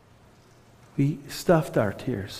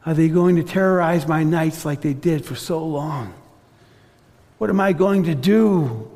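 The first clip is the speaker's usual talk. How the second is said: anxious inner thoughts; 2 semitones higher than usual. Retold or imitated. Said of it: "imagine the thoughts going through her head".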